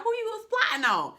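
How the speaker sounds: loud, high, laughing; laughing high shout. Pretend. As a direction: shriek it through laughter. Comic quote with laugh.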